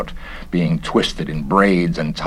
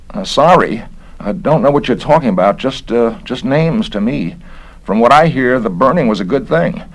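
slightly higher, offhand workman, a bit fast; a hint of a puzzled, indifferent builder; lightly voiced Bigelow; 5 semitones higher than usual. Bigelow answers Stendhal.

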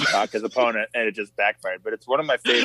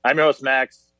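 game show host intro; lightly hammed-up show host. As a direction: welcome the audience like a TV host. Hosts a mock show intro.

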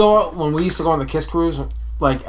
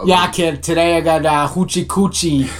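put-on playful, thick Boston accent; mock Boston accent. Co-host riffing for friends, mock Boston accent.

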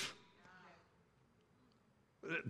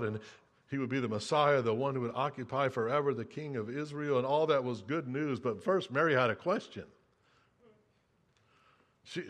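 quiet storytelling; 6 semitones lower, 5 dB quieter than usual. Acted. Quiet scripture story reading.

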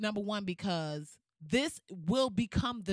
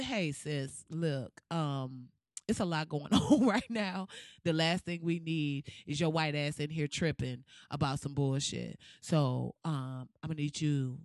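put-on soothing black girl voice; 4 semitones lower, 4 dB quieter than usual. To a white woman tripping at a coffee shop, soft soothing black girl voice. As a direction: lower and softer, calming a white woman down. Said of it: "I'm doing that as a black girl".

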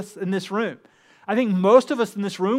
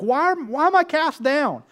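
higher, louder cry of a troubled soul; anguished self-questioning; 5 semitones higher, 3 dB louder than usual. Acted. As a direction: plead with your own soul. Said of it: "They're like".

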